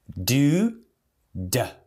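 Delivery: full "Do" then reduced "da"; do becomes da. Shown as a demonstration. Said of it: "Do vira".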